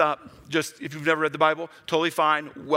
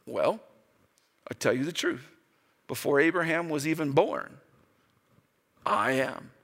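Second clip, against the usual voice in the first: solemn quiet answer; 3 semitones lower, 4 dB quieter than usual. Acted.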